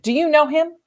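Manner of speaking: mild shouted question. A narrator's reading. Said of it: "they shouted".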